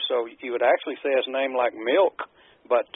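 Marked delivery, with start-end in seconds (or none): 1.8-2.2 Milk with a hard K ending; K-ending pronunciation. Shown as a demonstration. Co-host guessing at the German name, Milk ending in K. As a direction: say Milk like the English drink. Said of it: "would be a K there".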